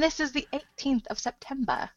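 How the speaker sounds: mock-formal date announcement in a British accent; attempted British accent. Co-host parodying the host's opening, attempted British accent. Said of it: "I don't know how I would do".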